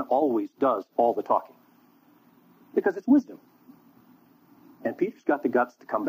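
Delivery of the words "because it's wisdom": mock sage voice. Mock wise elder voice.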